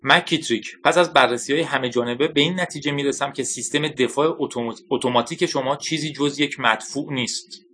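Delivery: mildly shouted rebuke from an angry general; understated yell at a subordinate; furious shout. Acted. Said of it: "به شدت خشمگین شده بود فریاد زد".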